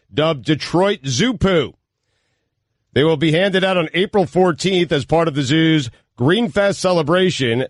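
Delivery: measured radio bulletin delivery; news read. Real, not acted. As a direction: read the closing item like a newscaster. Reads the closing news item.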